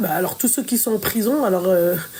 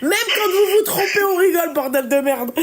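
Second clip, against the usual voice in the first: laughing, near tears; crying with laughter; helpless laughter; 7 semitones higher than usual. Real, not acted. Laughing at the mix-up.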